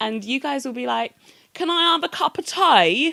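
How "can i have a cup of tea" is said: very loud, jokey fake cockney accent. Imitating Americans trying an East End accent: imitating a bad East End accent. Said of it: "the East End accent".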